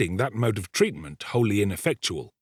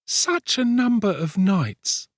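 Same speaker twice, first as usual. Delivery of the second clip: put-on high, slow, tender girl's voice; a touch of sweetness, drawn out high; 11 semitones higher, 3 dB louder, slower than usual. A narrator's reading. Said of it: "touch of woman's tenderness".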